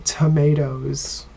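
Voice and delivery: tomatoes with an AY sound, to-MAY-toes; American tomatoes. Shown as a demonstration. Teacher returning the class to the American tomatoes, to-MAY-toes. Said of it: "But in the U S, we say".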